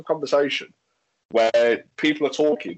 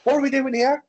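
much higher, loud put-on shouting voice; mock shout; 11 semitones higher, 4 dB louder than usual. Mimicking the loud girl barging into the bonfire chat, shouting.

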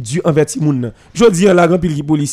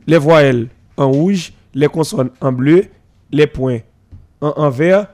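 slow, lower, spelling out each item of the rule; slow recitation; 4 semitones lower, slower than usual. Shown as a demonstration. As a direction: recite the school rule like a teacher, slowly. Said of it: "respecter les principes établis de l'école". (récitation lente et posée de la règle)

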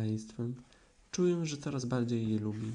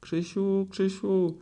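much higher, louder eager call; 8 semitones higher, 5 dB louder, much slower than usual. A narrator's reading. Piglet calls to Christopher Robin, high loud call. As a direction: call for rescue at the top of the voice. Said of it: "zawołał prosiaczek".

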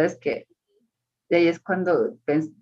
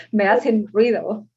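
put-on sleepy angry child; 4 dB louder, slower than usual. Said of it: "no me dejan dormir".

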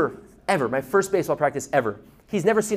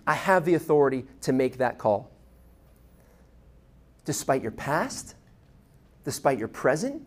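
tender appeal. Acted. Jesus as coach, tender appeal.

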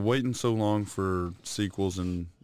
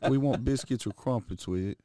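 mock British accent; 3 dB quieter than usual. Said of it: "And they were like".

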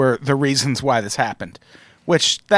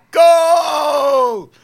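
mock shout; 12 semitones higher, 4 dB louder than usual.

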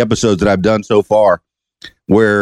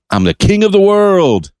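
high exultant call, stretched out; Leo's movie quote; 9 semitones higher than usual. Acted. Host retells Leo at ship's front, high triumphant call. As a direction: imitate the film hero's proud cry. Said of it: "and says".

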